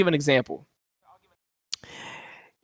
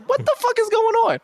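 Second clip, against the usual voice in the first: high shouted bafflement; baffled shout; 13 semitones higher than usual. Retold or imitated. A viewer reacting to a bizarre scene, high baffled shout. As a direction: yell out the confusion up high. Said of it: "I was like".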